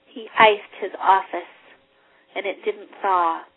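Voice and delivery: expressive read-aloud, stretching key words; story reading. Acted. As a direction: savour the cold images as you read. Reads Dickens aloud.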